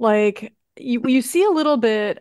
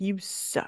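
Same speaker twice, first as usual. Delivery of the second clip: acted-out mutter under the breath, much quieter; 13 dB quieter than usual. Describing a classmate in the film, retelling an under-breath mutter. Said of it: "under his breath".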